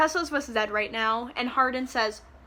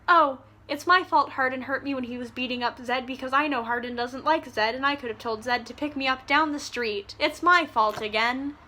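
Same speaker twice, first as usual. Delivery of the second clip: mocking Tessa. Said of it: "I'm gonna pretend to be you for a minute".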